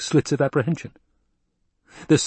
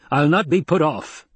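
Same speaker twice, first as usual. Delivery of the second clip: higher, slow, forceful snarl; 6 semitones higher than usual. A narrator's reading. Colonel refuses the Baron's stalling, snarling. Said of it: "the Colonel Bashar snarled".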